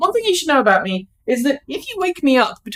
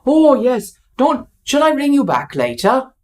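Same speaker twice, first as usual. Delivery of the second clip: put-on Welsh accent; 4 semitones higher than usual. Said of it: "Bad Welsh accent".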